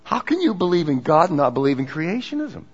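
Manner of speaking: high-pitched mock outrage; bonkers disbelief. Media reacting to a candidate who believes in creationism, going bonkers. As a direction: leap up high and rush the question, incredulous. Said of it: "They went bonkers on it".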